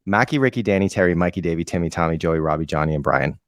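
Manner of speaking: put-on thick Boston accent rattling off names. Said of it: "I'm gonna do it in a Boston accent".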